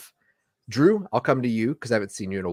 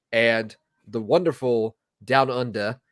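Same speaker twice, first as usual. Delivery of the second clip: bad Australian accent. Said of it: "my terrible Australian accent".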